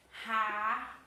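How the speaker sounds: Ra-inha split between ra and inha; syllable split. Shown as a demonstration. Teacher to class, splitting rainha into syllables. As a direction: pause after Ra in Ra-inha. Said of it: "Vamos lá saber, ó".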